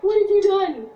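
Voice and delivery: high, loud panicked cry. Retold or imitated. Retelling her panic at her friend for sending the text. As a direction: shriek it as if the world just ended.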